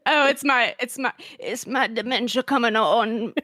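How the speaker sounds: laughing granny voice; old lady voice. Pretend. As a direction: play the doddering grandma. Reprising Edna voice.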